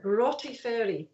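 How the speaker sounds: Barotti Ferry said the Scots way, with a throaty sound in Broughty; pronunciation challenge. Shown as a demonstration. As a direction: demonstrate Barotti Ferry as a Scottish place name. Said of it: "Try this one".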